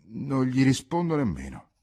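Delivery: put-on indignant young woman shouting her refusal; angry threat. Ghisola threatens to drench suitor.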